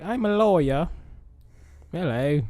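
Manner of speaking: put-on British accent. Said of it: "In a British accent".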